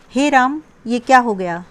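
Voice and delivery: acted shock for a quiz; shocked exclamation. Shown as a demonstration. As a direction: react to sudden bad news. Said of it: "इसमें से आपको विस्मयादिबोधक शब्द छांटना है".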